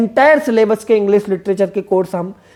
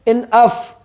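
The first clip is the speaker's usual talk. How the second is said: slow, split "इन अफ", lighter "इन", more force on "अफ"; stress on अफ; much slower than usual. Shown as a demonstration. Teacher showing students where the force falls, stress on "अफ" after a light "इन". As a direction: separate the two syllables and lean on "अफ". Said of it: "ऑफ पर आपको ज्यादा जोर लगेगा".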